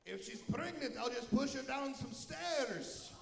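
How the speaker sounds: slow, lightly voiced ogre line; deadpan the joke as the ogre would; Shrek impression. Comedian voicing Shrek to the crowd, slow ogre voice. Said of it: "That's my Shrek impression".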